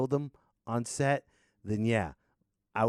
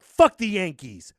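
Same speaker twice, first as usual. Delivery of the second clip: mock angry fan; 4 semitones higher, 11 dB louder, slower than usual.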